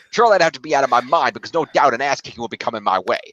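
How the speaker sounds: put-on loose Brooklyn accent reading a rant; light, half-kept Brooklyn accent; attempted Brooklyn accent. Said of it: "That's not a Brooklyn accent".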